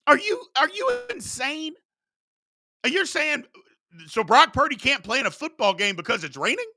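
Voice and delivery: indignant high-pitched outburst at a silly excuse; incredulous shout. Retold or imitated. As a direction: shout it like they've lost their mind. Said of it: "I was like".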